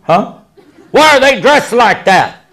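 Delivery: baffled echo. Retold or imitated. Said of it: "And I'm like".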